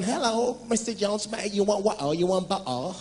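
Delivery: clumsy put-on British accent at the interview; mock British accent. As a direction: ham up the fake British voice. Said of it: "On the day of the interview".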